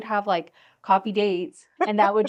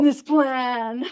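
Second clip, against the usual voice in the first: stiff robotic announcement, raised pitch; toy robot voice; 6 semitones higher, 6 dB louder than usual. Retold or imitated. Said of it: "J J went into robot mode".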